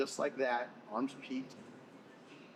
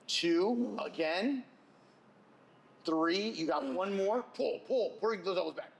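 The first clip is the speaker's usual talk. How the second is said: hyped coaching; 6 semitones higher, 3 dB louder, slower than usual. Real, not acted. Coach counting reps, pushing hard.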